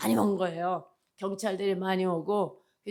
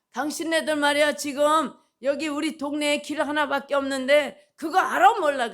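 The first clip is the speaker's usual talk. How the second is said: mock scolding; 4 semitones higher, 4 dB louder than usual. Preacher lectures the policeman.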